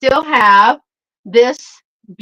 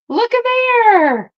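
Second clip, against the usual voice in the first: high, slow, drawn-out coo of delight; 14 semitones higher, 3 dB louder, slower than usual. Real, not acted. Showing a viewer her prize, high delighted coo. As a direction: show off the little prize like a treat.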